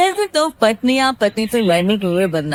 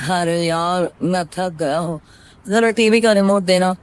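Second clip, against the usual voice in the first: lower, weary husband voice; tired husband; 4 semitones lower than usual. Acted. Gaurav tells Reena he is tired, lower and weary. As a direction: sound worn out after work.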